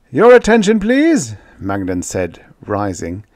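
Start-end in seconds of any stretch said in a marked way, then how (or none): 0.1-1.3 high, loud announcement; calling to order. Acted. Ambassador rises to address the banquet, calling out high and loud. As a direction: call out over a crowded hall.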